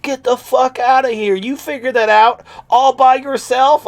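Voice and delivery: high, loud, hammed-up disbelief; mock astonishment. Imagined friend to the idea man, mock astonished. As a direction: squeal it like a mind-blown buddy.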